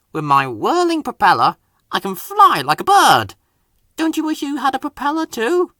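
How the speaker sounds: Harold boasting. Acted. Helicopter bragging to Percy, lightly voiced and boastful. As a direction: show off the propeller. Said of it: "said the helicopter".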